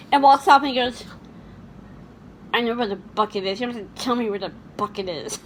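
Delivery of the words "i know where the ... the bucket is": imitating a muttered line, softer and lower; mock muttering. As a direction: mutter it through a clenched jaw. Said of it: "Muttering under his breath".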